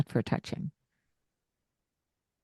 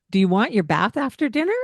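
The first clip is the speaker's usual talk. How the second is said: asking question; 4 semitones higher, faster than usual. Shown as a demonstration. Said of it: "Instead of".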